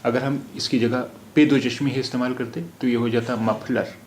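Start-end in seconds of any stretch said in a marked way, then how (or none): 3.3-3.9 मफलर said with an aspirated ph; teacher shows the wrong मफलर with ph. Shown as a demonstration. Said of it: "और मफलर कोई लफ्ज़ नहीं है".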